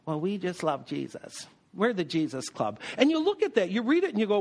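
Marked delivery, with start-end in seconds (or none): 0.1-2.8 a hint of a sanctimonious church member, softer; lightly mock the holier-than-thou crowd, softer; pious Pete's. Preacher mocking the pious Peter faction, lightly voiced and softer. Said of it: "the pious Pete's".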